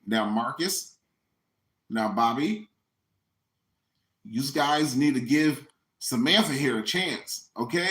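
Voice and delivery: calm the booing crowd down; soothing host. Retold or imitated. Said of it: "It's like".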